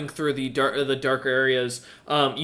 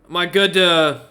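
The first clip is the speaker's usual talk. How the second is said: higher, louder hesitant question; frost giant asking; 3 semitones higher, 6 dB louder than usual. Acted. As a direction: ask to leave while pointing at the door. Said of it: "looks at you and goes".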